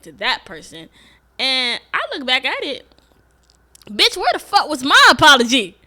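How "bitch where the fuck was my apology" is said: loud and high, building to a yell; furious shout ending in a scream of Bitch; indignant shout. Real, not acted. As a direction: yell it, fed up. Indignant outburst at herself.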